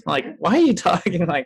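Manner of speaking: normal talking voice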